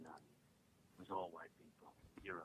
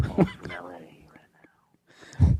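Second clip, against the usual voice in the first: breathy celebrity whisper; 10 semitones higher, 13 dB louder than usual. Pretend. Prank caller in celebrity voice.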